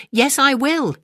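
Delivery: high, loud shout of a god. A narrator's reading. Big god Nkong answers Kangaroo with a shout. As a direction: call out yes, high and loud. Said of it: "and shouted".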